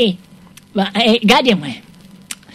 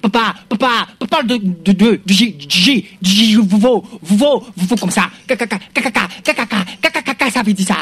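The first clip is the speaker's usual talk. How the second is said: comic stammer. Acted. Sketch, bégaiement comique.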